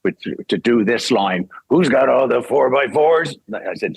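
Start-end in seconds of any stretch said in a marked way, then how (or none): 1.7-3.3 lightly voiced drill sergeant, slow and drawn out. Shown as a demonstration. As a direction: sing out the line like a sergeant. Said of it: "they needed someone to be a sergeant".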